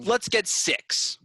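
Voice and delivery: high, drawn-out hyped call; rally them with mock gusto; mock rallying cry.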